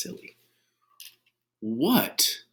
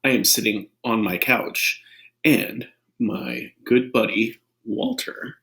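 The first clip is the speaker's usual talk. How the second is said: put-on reading to children. Shown as a demonstration. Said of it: "I'm gonna read".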